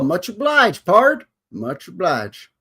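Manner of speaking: high playful cowpoke thanks; mock cowboy thanks. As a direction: tip your hat with a grin.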